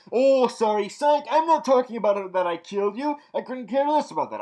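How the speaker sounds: loud, high, fast mock villain; taunting psych. Thawne pulling a psych on Cisco, mock taunting. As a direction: rush through it as a gleeful fake-out. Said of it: "gave him the psych".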